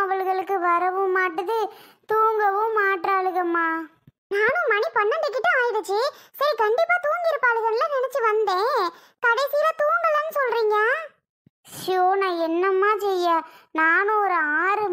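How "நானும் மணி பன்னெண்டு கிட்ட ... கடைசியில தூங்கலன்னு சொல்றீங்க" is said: higher-pitched voice, mildly dismayed; young visitor Soni. Acted. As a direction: react with gentle disbelief to the aunt. (லேசான ஆதங்கத்துடன் உயர்ந்த குரல்)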